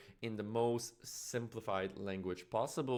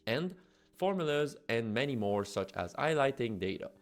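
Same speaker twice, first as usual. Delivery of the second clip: upbeat, louder promo voiceover; ad read; 4 dB louder than usual. Acted. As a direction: read it like a punchy product ad. Scripted promo read over music.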